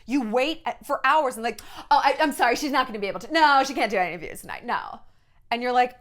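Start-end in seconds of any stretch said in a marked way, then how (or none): 1.9-5.0 lightly mimicked dismissive apology; publicist brushing off. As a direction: turn reporters away as a publicist would. Publicist turning waiting reporters away.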